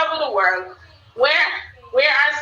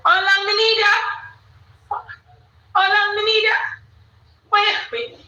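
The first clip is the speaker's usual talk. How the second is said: high, raised exclaiming; excited call-out; 9 semitones higher, faster than usual. Real, not acted. Host urging viewers to join, excited.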